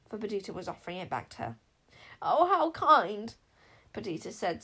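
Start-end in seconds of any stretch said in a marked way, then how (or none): 2.2-3.4 smiling, touched. A narrator's reading. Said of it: "smiling and recovering her composure".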